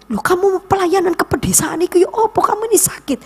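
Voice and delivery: high, incredulous objection; imitated protesting husband. Voices husband's worried objection.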